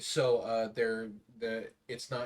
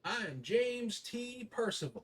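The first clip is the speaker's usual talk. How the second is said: gruff little voice; 12 semitones higher than usual. Acted. GM voices the same NPC.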